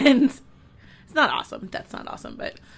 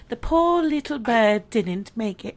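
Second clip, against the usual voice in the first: mock English documentary narrator; lightly imitated English narrator; English accent. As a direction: break bad news in an English accent. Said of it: "once you've sounded like this".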